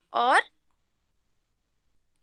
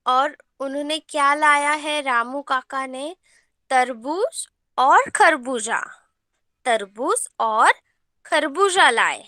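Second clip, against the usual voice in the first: reading a lesson aloud. Shown as a demonstration. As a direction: read each word out for the class to follow. Teacher re-reads lesson emphatically.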